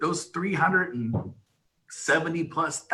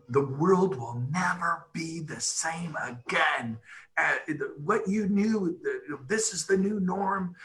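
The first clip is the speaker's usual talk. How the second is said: mock doom; 3 semitones higher, slower than usual. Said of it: "They say".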